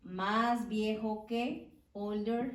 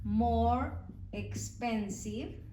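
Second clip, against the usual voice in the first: slow model phrase; much slower than usual. Shown as a demonstration. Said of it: "teacher models English comparative slowly".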